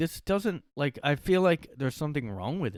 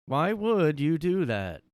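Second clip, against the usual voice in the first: louder, higher, slow baffled question; exasperated; 6 semitones higher, 6 dB louder, slower than usual. Real, not acted. Creator baffled by the narrator, louder and slow. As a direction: demand an answer, baffled and exasperated.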